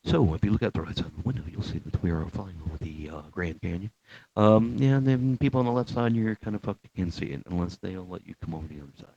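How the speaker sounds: relaxed captain's cabin announcement, lightly imitated; hesitant, chatty pilot patter with fillers; airline pilot. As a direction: do a casual pilot talking over the intercom. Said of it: "I'll see if I can do it right".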